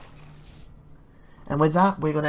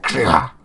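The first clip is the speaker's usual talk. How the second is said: low, loud throaty burst; imitated impact noise; 7 semitones lower, 7 dB louder than usual. Gauntlet hand landing on a shoulder, loud low noise. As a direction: make the noise of a heavy clap. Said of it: "so he's like".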